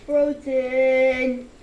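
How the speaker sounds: shouting out, pitched high; loud frozen cry. Real, not acted. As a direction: yell it in shock. Game character gets frozen.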